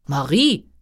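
king calling out for the maid; loud call. A narrator's reading. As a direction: call the name out, voice lifting at the end. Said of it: "rief der König laut".

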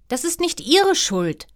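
put-on high-pitched girlish protest; protesting princess. A narrator's reading. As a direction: jump in high to defend mother. Princess defends her mother.

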